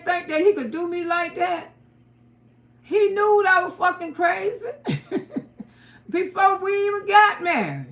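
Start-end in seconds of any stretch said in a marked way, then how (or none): 2.8-7.9 laughing. Real, not acted. Laughing recalling her wild self.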